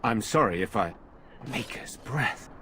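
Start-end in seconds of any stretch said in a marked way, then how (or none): 1.5-2.5 slow, soft, awestruck exhale of the words; quiet disbelief, drawn out; stunned murmur. Acted. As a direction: let the shock drain the voice. Shocked at sight of Isolde.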